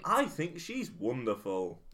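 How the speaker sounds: posh 1930s crowd banter; old-timey newsreel voice. Acted. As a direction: play a jolly old-fashioned Englishman. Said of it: "our impression of the great song".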